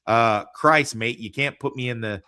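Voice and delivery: put-on lightly done Australian accent, loud bursts; a hammed-up Australian bloke; mock Australian accent. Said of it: "terrible Australian accent".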